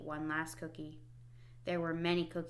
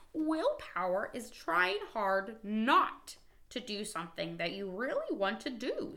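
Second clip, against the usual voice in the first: Frog voice; 3 semitones higher than usual. Acted. Frog's explaining voice.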